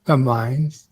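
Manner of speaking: secretive whispered reply; whispering. Pretend. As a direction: answer in a hushed hiss. Whispered answer to conspiratorial question.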